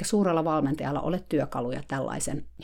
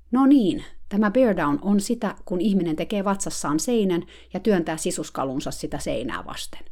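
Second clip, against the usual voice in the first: mock coach explaining; 2 semitones higher than usual. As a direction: hold forth like a self-important coach. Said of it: "suuren valmentajan oli ... pakko vastata".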